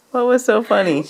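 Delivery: asked through laughter; laughing. Real, not acted. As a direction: laugh while you ask it. Repeated while laughing.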